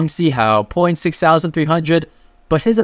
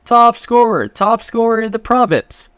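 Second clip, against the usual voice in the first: yelling out; 7 semitones higher than usual. Retold or imitated. Friend yelling to everyone, hammed-up proud shout. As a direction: shout it to the crowd, bragging. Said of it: "and he yells out".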